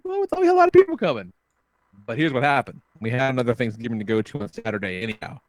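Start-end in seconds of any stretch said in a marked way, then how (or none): 0.0-1.3 high, fast, put-on silly voice; mocking excuse. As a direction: rattle it off high and quick like a lame excuse.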